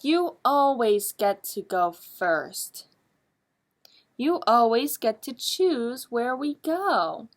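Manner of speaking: slow, lightly voiced sulky shadow; a touch of sulking. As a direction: drag it out like a hurt child. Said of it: "little Shadow says".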